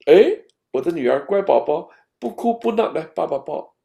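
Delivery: put-on a touch of baby-talk praise; coaxing father. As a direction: lightly coax a small child into a hug. Father coaxing his daughter, acted.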